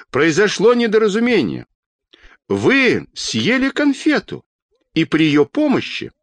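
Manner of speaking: high, calling explanation; urgent cry. A narrator's reading. Children's doctor explaining to the old woman above, calling out. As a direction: call it upward, pitched high and stretched. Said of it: "закричал детский доктор".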